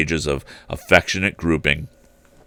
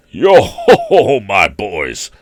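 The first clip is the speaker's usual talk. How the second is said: jovial Fezziwig call; 6 dB louder, slower than usual. A narrator's reading. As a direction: hail the boys like a jolly old master. Fezziwig calling his apprentices.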